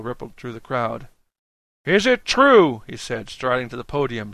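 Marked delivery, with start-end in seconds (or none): 1.8-2.8 high, rousing shouted question; shouting. A narrator's reading. Dan at the podium, shouting to the crowd. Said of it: "shouting now".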